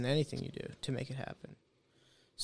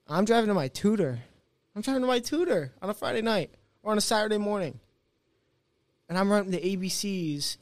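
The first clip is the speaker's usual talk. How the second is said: mock exasperation; 4 semitones higher than usual. Contrasting friends' fun with his tutoring.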